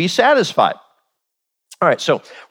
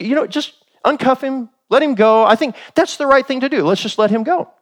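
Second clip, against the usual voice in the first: lightly voiced judge, higher and breezy; a hint of a self-satisfied judge, pitched up; naive lenient judge; 6 semitones higher than usual. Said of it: "and the judge says".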